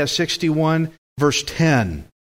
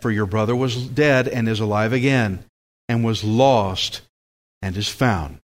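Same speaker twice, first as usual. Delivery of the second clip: mildly tender, lower toward the end; tender father; 4 semitones lower than usual. Acted. Father reassuring his older son, tenderly. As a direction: reassure gently, letting the voice sink gradually. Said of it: "He says it very tenderly to him".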